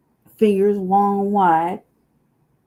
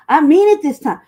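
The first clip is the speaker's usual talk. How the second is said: louder insistent retort; 5 semitones higher, 10 dB louder than usual. Retold or imitated. Telling her man she really means it, louder. Arguing with boyfriend.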